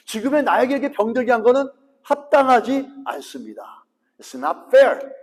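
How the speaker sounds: mock complaint to God; complaining protest. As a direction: whine it like a wronged child. Voicing the entitled complaint.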